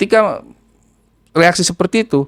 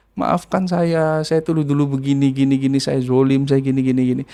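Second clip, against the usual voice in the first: retold tearful apology. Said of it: "sambil nangis".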